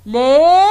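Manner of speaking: "les" as a lone, drawn-out syllable. Shown as a demonstration. Teacher shows the second syllable, "les" said separately. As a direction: sound out "les" on its own, held long. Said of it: "la deuxième syllabe".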